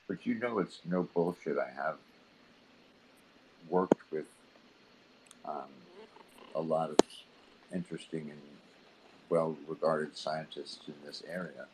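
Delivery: faint and far off, barely there; like talking from miles away; barely audible. Real, not acted. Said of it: "I can barely hear you".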